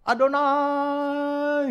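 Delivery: high, loud, very drawn-out mock prayer cry; imitasi teriak-teriak berdoa. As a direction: stretch the holy name into a long ritual call. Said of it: "Dia tiap hari teriak-teriak". (menirukan seruan doa yang lantang, tinggi dan sangat panjang)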